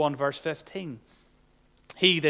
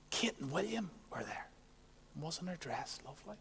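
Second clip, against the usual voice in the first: gossiping on the phone; 17 dB quieter than usual. Retold or imitated.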